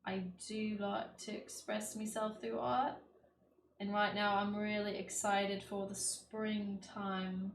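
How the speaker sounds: lightly put-on British accent. Real, not acted. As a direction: slip into a measured British accent for no reason. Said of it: "I'm speaking in a British accent".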